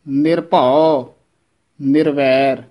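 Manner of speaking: ਨਿਰਭਉ said slowly as one word; correct pronunciation. Shown as a demonstration. Teacher models joined pronunciation for students, slow and careful. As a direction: draw ਨਿਰਭਉ out slowly, unbroken. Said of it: "ਇਹ ਪਦ ਇਕੱਠਾ ਹੀ ਬੋਲਣਾ ਹੈ".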